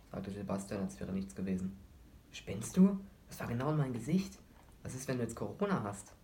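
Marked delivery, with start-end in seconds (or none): 2.3-6.1 sharp, much higher and louder burst of outrage; indignant outburst. Acted. Boy yelling at the friend who coughed on him, indignant. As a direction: snap at the friend who just coughed in his face.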